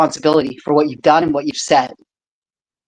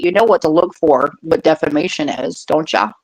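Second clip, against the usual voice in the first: put-on Yurikowan accent. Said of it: "In my best Yurikowan accent".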